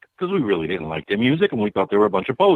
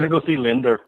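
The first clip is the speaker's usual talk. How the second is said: put-on New England accent. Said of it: "in a New England accent".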